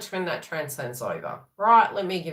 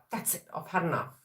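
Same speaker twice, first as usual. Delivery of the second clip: softer, exasperated giving up; fed up; 7 dB quieter than usual. Retold or imitated. Projecting frustration, a soft exasperated giving up. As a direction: quietly throw in the towel. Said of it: "We're like".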